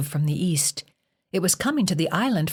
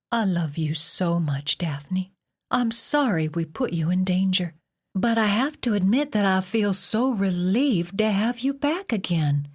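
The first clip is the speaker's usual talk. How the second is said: tender whisper; 3 semitones higher than usual. Acted. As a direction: hold her close and whisper. Mother hugging crying daughter.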